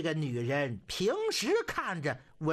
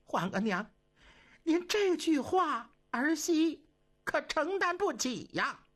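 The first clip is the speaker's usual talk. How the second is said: pleading empress; 8 semitones higher than usual. Acted.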